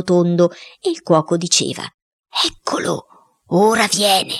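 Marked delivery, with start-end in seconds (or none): 2.4-4.3 lightly voiced cook calling a spirit's arrival; medium's announcement. Cuoco evoca lo spirito. (annuncio da medium, appena accennato)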